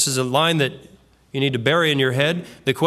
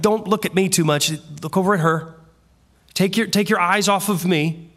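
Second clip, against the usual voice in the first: groveling; 3 semitones higher than usual. Retold or imitated. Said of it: "I think it was more groveling".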